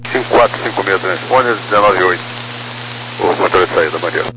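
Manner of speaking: crackly cockpit radio readback; pilot over the radio. Real, not acted. Pilot reads back on radio.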